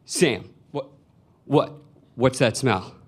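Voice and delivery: lightly voiced mother, halting and repetitive; a hint of a mom nosing out trouble; suspicious mom. Mom questioning Sam in the car, suspicious.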